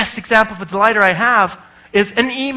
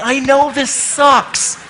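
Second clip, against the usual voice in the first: slow, understanding sympathy; empathetic; 5 semitones higher, much slower than usual. Pretend. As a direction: comfort the frustrated user slowly. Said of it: "It's saying".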